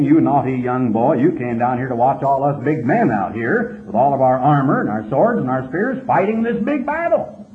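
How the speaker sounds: a hint of a scolding big brother; mocking older brother. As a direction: lightly sneer it down at the kid. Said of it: "here's the older brother saying".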